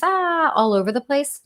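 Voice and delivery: whispered high imitation of a frantic kid; mock frazzled whisper. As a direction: breathe it out as the overwhelmed daughter. Imitating escalated daughter.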